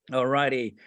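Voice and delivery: ordinary talk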